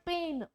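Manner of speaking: पेन with a leaned-on long vowel; stressed vowel. Shown as a demonstration. Teacher models पेन with a stressed vowel for students. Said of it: "ए पे दबाव है".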